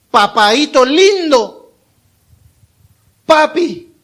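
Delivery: high, drawn-out endearment; special affectionate tone. Acted. Adopted child approaching God as Father, fond high call. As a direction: call out fondly, stretching the words slowly. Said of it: "en un tono especial".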